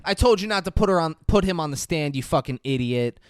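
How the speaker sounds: imitating an angry boss's dressing-down; chewing her out. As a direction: tear into an underling, lightly acted. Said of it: "He shits on her".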